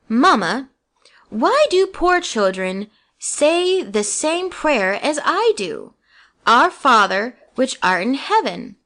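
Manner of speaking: earnest and weighty, taking his time; solemn. Acted. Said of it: "in a very solemn voice".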